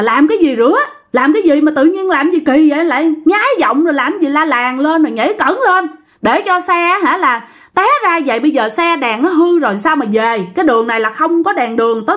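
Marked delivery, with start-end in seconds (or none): 0.0-8.4 higher exasperated telling-off; riled-up retold rebuke, climbing higher; angry scolding. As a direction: scold a friend who just made you crash. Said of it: "anh Nhân mới la rằng á là".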